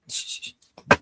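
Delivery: unvoiced playful shush; a mock warning to keep it secret. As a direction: hush him, half joking. Hushing talk of illegal cable.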